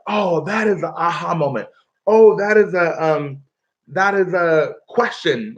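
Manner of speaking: a touch of surprise; a light voiced student discovery; student realizing. Teacher imitating a student's realization, mild surprise. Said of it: "make you be like".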